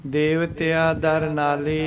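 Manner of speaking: drawn-out scripture reading; slow recitation. Shown as a demonstration. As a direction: recite slowly with pauses. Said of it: "ਇਸ ਤਰ੍ਹਾਂ".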